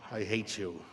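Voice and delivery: low, softened grumble with long pauses; envious resentment. Retold or imitated. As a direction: sulk it quietly under your voice. Envious reaction to captain, acted.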